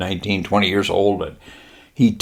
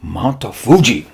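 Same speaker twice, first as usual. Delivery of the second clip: lightly voiced Japanese admiral, pitched up; slight put-on Japanese accent, higher voice; 4 semitones higher than usual. Admiral promising pilots leave, light mock-Japanese voice. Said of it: "He says".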